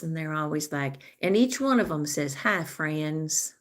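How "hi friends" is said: lightly imitated vlogger hello; a hint of a drawn-out YouTuber greeting. Mimicking how YouTubers greet their followers, lightly drawn out. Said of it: "on YouTube that talk like this".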